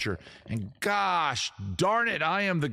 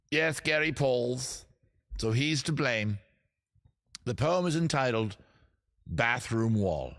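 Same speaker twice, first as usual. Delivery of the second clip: measured, hammed-up British reciter; over-the-top British poet; 2 semitones lower than usual. Poet naming who's to blame for the poem, mock-British poetry voice. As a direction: announce the title with mock poetic gravity. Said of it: "the over-the-top British accent".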